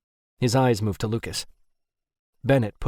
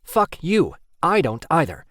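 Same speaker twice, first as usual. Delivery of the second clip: angry growl; 7 semitones higher, 5 dB louder than usual. Acted. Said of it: "Kerwin growled at him".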